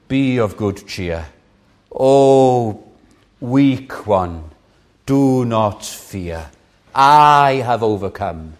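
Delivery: slow, gentle comforting words; tender reassurance. Acted. Jesus comforting a weak believer, tender and slow. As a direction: soothe the weak one.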